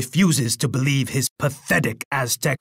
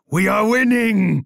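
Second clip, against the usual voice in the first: triumphant cry; 7 semitones higher than usual. Acted. Emperor crowing to his rival, triumphant cry. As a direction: crow the victory. Emperor sees battle turn.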